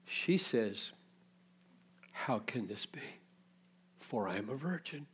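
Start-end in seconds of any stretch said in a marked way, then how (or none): 2.1-5.1 wondering Mary. Acted. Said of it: "she really means how".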